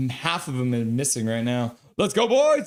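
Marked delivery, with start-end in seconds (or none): 2.0-2.7 chat cheer shout. Retold or imitated. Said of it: "says Milosh".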